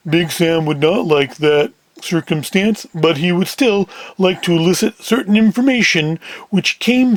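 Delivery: lightly voiced, deliberate heavy; a hint of a menacing big man. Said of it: "Big Sam in the deeper voice".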